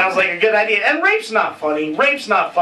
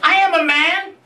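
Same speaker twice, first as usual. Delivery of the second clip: mock proud reply; 2 semitones higher than usual. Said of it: "I'd be like".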